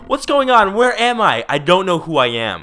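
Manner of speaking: high, loud frightened yelling; panicked cries. Acted. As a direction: cry out in high terror. Voicing the panicked snowman.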